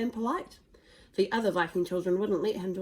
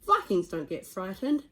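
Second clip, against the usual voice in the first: Stoic's voice; 6 dB louder than usual. Acted. Stoic laughs at son.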